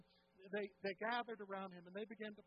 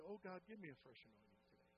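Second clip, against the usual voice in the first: prayer model line; 6 dB quieter than usual. Shown as a demonstration. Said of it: "I want you to say".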